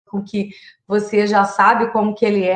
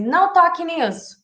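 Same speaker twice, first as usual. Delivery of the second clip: stern warning; 6 semitones higher than usual. Shown as a demonstration. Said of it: "ao invés da gente falar também assim".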